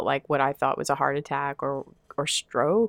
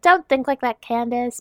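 self-scolding; 6 semitones higher than usual. Retold or imitated. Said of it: "you're like".

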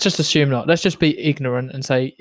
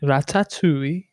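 slow, drawn-out Welsh accent; put-on Welsh accent; slower than usual. Shown as a demonstration. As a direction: stretch it out with a rising Welsh lilt. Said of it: "Say it in a Welsh accent".

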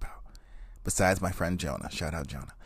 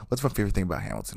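fast repeat; much faster than usual. Shown as a demonstration. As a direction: rattle off What's my favorite thing about Hamilton quickly. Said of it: "I'm just cutting straight to the chase".

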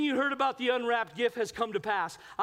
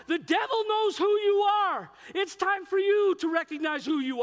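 forceful preaching; 7 semitones higher, 4 dB louder than usual. Real, not acted.

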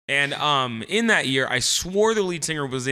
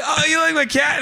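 put-on cute girly voice; 11 semitones higher than usual. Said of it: "she was like".

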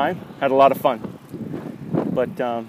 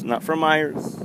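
quiet echo; 6 dB quieter, slower than usual. Acted. Repeats phrase, second quieter.

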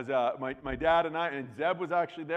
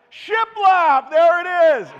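much higher and louder, shouting out the word he finally remembered; triumphant shout; 13 semitones higher, 15 dB louder, much slower than usual. Real, not acted. Preacher to congregation, finally recalling the word, triumphant shout. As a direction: blurt it out like a quiz winner.

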